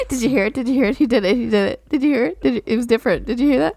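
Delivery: giddy, rapid-fire excitement; excited. Real, not acted. New wife thrilled at her introduction, giddy and excited. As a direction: gush with giddy disbelief.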